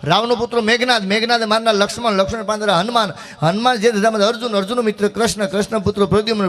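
brisk chanted chain of names; rhythmic recitation. Acted. Folk comedian rattling off the divine family chain, chanted. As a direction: roll it off like a memorized verse.

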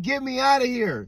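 high, urgent imitated plea; desperate plea. Bloodied woman begging the driver to let her in, desperate plea. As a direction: retell a frightened demand to be taken away.

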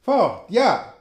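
high, loud repeated "fort"; shouting crowd. A narrator's reading. Apache warriors shout to the narrator, high and loud. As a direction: yell it as a wild crowd. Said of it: "schrien sie".

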